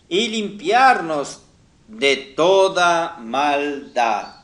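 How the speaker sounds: slow, deliberate Bible reading; scripture reading. Acted. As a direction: read the verse out phrase by phrase, drawing out key words. Reads Bible verse aloud to congregation. (lectura bíblica solemne y pausada)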